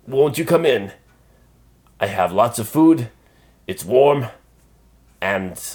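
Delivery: big friendly giant, booming; a kind giant speaking warmly; gentle giant voice. Acted. Giant keeps inviting Pedro.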